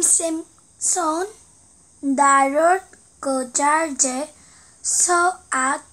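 reading Korean text backwards syllable by syllable; halting, careful backward reading; backwards speech. Shown as a demonstration. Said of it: "거꾸로 읽으니까 중국어".

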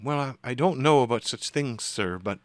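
hesitant, deferential reply with a small stammer; a hint of a flustered, polite woman; timid female spirit. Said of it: "in a timid female voice".

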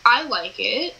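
hesitant, rising at the end; a slightly unsure yes; hesitant approval. Real, not acted. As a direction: say it as if you had to think about it. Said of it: "Why'd you say it like that? Like you had to think about it".

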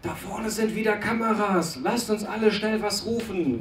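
high announcer call from a truck; demo truck announcer. Retold or imitated. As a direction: call it out like the protest truck speaker. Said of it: "vom Sprecherwagen dieses Ding kommt".

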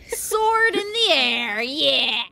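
high, loud battle cry; death scream. Acted. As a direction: yell it out as you go down. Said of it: "I gotta love that death scream".

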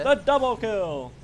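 game announcer. Retold or imitated.

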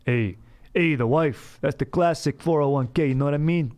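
lightly voiced old-school husband; a hint of corny golf-course joker; old-school golf guy. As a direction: toss out wife jokes like a golf buddy. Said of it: "old school style guy wife jokes".

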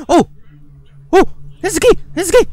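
high, loud thrilled shout; happy discovery cry; excited. Real, not acted. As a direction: yell it out in delight. Finding the key.

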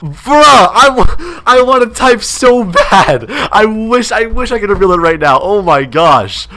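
high, drawn-out cry of frustration; wound-up, stretched-out indignation; exasperated outburst. Real, not acted. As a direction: burst out high and slow, then come back down. Outraged at her typed reply.

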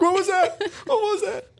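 very high, squeaky mock panic; spooked victim. Player inside hearing whispers outside, mock-frightened squeal. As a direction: yelp it like a jumpy, hammed-up victim.

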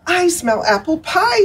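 high, tiny voice for Grandma Ant. Acted. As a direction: squeak it up small like a little ant. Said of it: "said Grandma Ant".

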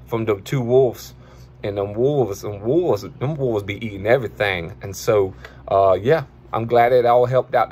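a hint of a goofy guy reacting to a viral video; Dollar character voice. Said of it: "that's your boy Dollar".

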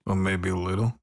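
light Southern drawl, sweet-talking; a hint of a Southern belle drawl. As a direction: coax her in a lazy Southern drawl. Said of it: "I have a southern drawl".

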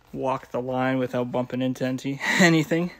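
winded from climbing the ladder; puffing between words after running around; out of breath. Real, not acted. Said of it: "Sorry, out of breath".

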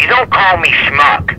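slow, loud, stern warning; angry. Real, not acted. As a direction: lay down the law, slowly. Neighbour insulted, slows down.

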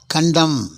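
கண்டம் as kun-DEM, ending on M; silent final N. Shown as a demonstration. Teacher models condemn for learners, silent N in கண்டம். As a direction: drop the last N in கண்டம். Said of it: "கடைசியில உள்ள எண்ணுக்கு உச்சரிப்பு கிடையாது".

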